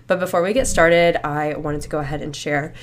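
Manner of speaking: slightly winded speech; short of breath while talking. Real, not acted. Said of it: "I'm, like, out of breath right now".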